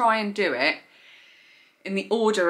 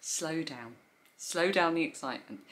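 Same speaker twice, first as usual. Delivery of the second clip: softer, settling herself; calming down; 7 dB quieter than usual. Real, not acted. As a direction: talk yourself down gently. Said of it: "speaking at a hundred miles an hour".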